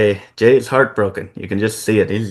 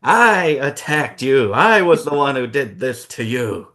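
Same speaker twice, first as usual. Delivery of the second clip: evil Sami; 3 semitones higher than usual. Acted. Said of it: "Evil Sami".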